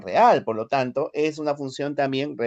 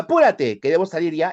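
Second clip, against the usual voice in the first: urgent order; 2 semitones higher, 4 dB louder than usual. Acted. Telling someone to hurry because you must leave, urgent command.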